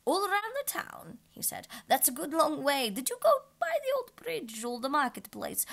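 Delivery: change the subject nervously; high, nervous king voice; nervous quiver. Acted. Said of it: "his voice quite quivered".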